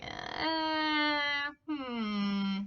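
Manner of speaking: unconvinced hmm; a skeptical Thomas, mild; doubtful grunt. Retold or imitated. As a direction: sound like you don't buy it. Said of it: "He's like".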